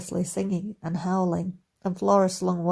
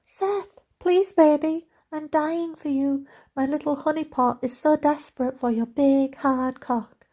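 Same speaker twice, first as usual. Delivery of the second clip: much higher squeaky Scottish woman; chipmunk Scottish voice; 9 semitones higher than usual. Acted. Evan voices the female character for Flora, high squeaky Scottish. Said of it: "high-pitched, still Scottish, verging on chipmunk voice".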